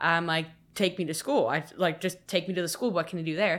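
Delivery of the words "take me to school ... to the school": put-on frantic, fast, rushed, panicked pleading. Retelling being chased on the highway, reenacting own panicked plea. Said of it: "I'm freaking out".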